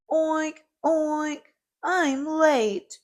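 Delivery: high, loud piggy oinks in mock tears; weeping piggy. A narrator's reading. Piggy late for school, oinking in mock tears. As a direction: oink like a little pig about to cry. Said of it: "poor Piggy wept".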